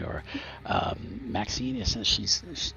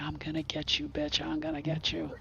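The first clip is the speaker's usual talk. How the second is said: higher, menacing threat; threatening Maxine; 8 semitones higher, 4 dB quieter than usual. Acted. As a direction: snarl a promise of revenge. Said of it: "She's like".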